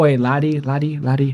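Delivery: a lightly voiced, half-hearted Irish accent. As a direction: toss off a quick, lazy Irish accent. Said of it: "can you do an Irish accent?".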